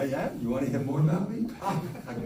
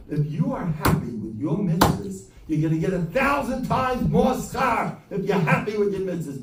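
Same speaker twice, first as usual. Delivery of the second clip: fervent shout; 7 semitones higher, 4 dB louder than usual. Retold or imitated. Quoting the rabbi fervently.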